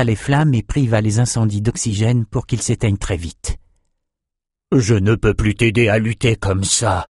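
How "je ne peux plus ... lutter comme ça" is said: understated frustration in character; mildly put-out character voice; vexed. Acted. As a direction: admit helplessness with a touch of vexation. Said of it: "dit Nathan dépité".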